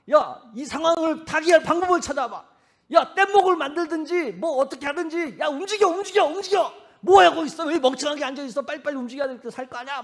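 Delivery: loud, high, panicked shouting; frantic yelling. Retold or imitated. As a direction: yell in a panic to get moving. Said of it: "막 그러고 난리를 필 거예요". (다급하게 소리치며 재촉하는 목소리)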